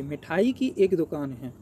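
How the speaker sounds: slow, deliberate, each word set apart; slow correct version. Shown as a demonstration. Teacher repeating the correct sentence slowly for students. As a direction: spell out the right order slowly. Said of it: "थोड़ी ना होगी".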